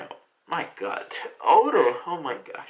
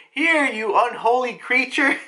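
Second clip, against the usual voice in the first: tag; 7 semitones higher than usual. Retold or imitated. Kid brandishes cross at vampire.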